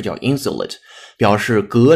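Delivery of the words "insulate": British-leaning "insulate" with "syu" in the middle; British-leaning pronunciation. Shown as a demonstration. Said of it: "用它倾向英音的方式".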